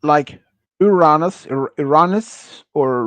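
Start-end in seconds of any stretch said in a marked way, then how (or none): 0.8-1.5 "Uranus" as oo-RAH-nus; "Uranus" with AH in the middle, not AY; variant pronunciation. Shown as a demonstration. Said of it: "some people call it different how they pronounce it". 1.5-2.6 "Uranus" as ih-RAH-nus; "Uranus" restarted, with AH in the middle; variant pronunciation. Shown as a demonstration. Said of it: "some people call it different how they pronounce it".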